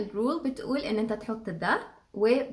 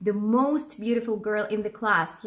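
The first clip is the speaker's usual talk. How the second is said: slow model sentence; much slower than usual. Shown as a demonstration. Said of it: "هقول منى is".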